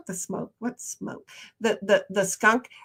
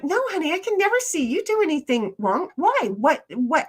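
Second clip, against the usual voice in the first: a touch higher, reassuring honey; comforting a worried friend, a bit higher; retold reassurance; 5 semitones higher than usual. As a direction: reassure a friend who feels hurt. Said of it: "then I'm like".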